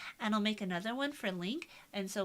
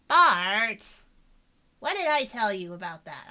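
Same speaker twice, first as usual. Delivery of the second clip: a hint of scolding cartoon sister; loud call, lightly voiced impression; Lisa Simpson; 9 dB louder, slower than usual. Shown as a demonstration. Streamer trying a cartoon sister scolding her brother, light impression. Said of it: "think of a Lisa kind of line".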